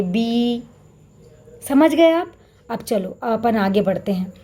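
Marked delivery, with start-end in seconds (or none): 0.0-0.6 बी with a different vowel quality as the contrast sound; model pronunciation. Shown as a demonstration. Teacher contrasting the second बी for the children. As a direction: say बी the way the other matra sounds. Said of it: "इस तरह से करेंगे".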